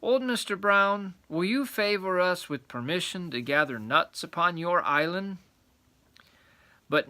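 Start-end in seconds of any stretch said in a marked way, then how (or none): 0.0-5.4 polite little squirrel. Acted. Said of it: "said politely".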